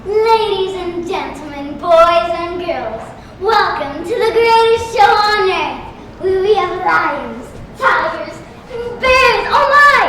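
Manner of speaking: circus barker at an audition; ringmaster. Acted.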